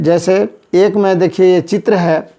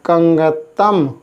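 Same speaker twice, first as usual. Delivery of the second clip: slow model word; much slower than usual. Shown as a demonstration. Teacher naming the picture, slow model pronunciation. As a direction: stretch each syllable clearly. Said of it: "इसको बोलते हैं".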